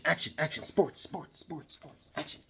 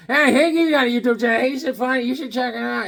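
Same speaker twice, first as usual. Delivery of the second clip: higher, lightly voiced friend; a hint of a higher Harvey; 8 semitones higher, 4 dB louder than usual. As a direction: pitch it like Harvey. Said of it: "Harvey goes".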